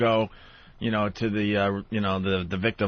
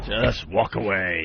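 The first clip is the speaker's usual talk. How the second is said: curt brush-off; 3 semitones lower, slower than usual. Retold or imitated. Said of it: "he just went".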